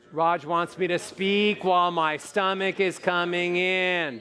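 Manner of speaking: slow, sustained, projected line; supported projection. Shown as a demonstration. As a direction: draw the words out on one breath. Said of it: "Take a breath".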